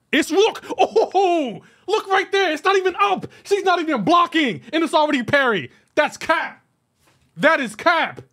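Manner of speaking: high-pitched, laughing outrage at the replay; excited disbelief. Real, not acted. Gamer rewinding his fight, laughing in high disbelief. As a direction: yelp it out, half laughing in disbelief. Catching an unfair parry on replay.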